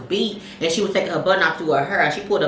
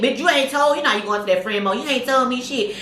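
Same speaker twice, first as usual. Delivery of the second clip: mock outrage; 6 semitones higher than usual. Retold scolding of friend.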